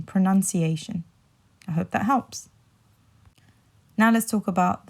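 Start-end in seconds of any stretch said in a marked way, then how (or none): 0.0-1.0 pronunciation with NUN in the middle; pronunciation as pro-NUN-ciation, joined up; noun form demo. Shown as a demonstration. Teacher repeats the noun form, pronunciation with a NUN sound. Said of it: "But as a noun".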